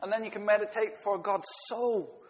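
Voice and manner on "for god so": "so" drawn out, slow, falling; stress on SO. Shown as a demonstration. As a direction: weigh the little word "so" slowly. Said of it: "You emphasize the soul".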